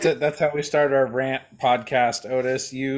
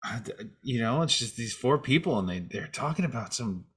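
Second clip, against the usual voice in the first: softer, dazed patient hearing voices; mock haunted patient; 3 semitones lower, 6 dB quieter than usual. The speaker playing a patient haunted by voices, softer and dazed. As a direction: drift off as if the voices won't stop.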